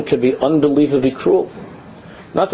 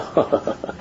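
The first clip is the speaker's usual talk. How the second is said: soft voiceless snicker; inward laugh; 4 semitones lower, 8 dB quieter than usual. Retold or imitated. Adults laughing inside of themselves, hushed mock laugh. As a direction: imitate a suppressed, hidden laugh. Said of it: "inside of themselves they laugh".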